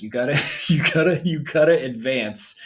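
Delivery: a hint of Jim Rohn's nasal tone; slightly nasal voice. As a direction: lightly imitate his nasal voice. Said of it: "in this kinda, like, slightly nasally voice".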